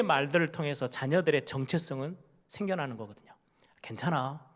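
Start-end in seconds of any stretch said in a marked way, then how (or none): 3.8-4.5 gentle whispered reassurance; hushed comfort. Retold or imitated. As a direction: breathe it softly to the child.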